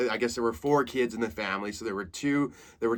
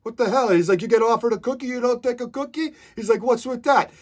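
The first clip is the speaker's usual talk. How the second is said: much higher, loud put-on old man; indignant old cook; 12 semitones higher, 6 dB louder than usual. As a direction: act offended he refused the cookie. Old cook indignant about cookie.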